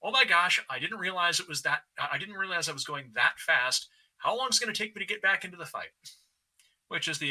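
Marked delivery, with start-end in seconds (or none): 0.0-5.9 startled, rising panic, faster at the end; a pilot suddenly realizing he's overshot; alarmed exclamation. Retold or imitated.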